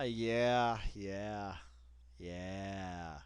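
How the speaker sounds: home-made sound effect echo; fake echo effect. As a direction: play your own echo, fading out. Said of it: "when you don't have goddamn technology to put in sound effects".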